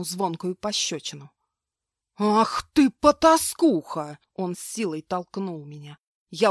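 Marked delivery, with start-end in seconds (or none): 2.2-4.2 higher, louder, slow drawn-out curse; furious insult. Acted. Slapped husband curses his wife, loud furious insult. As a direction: spit out the insult in rage. Bill enraged after slap.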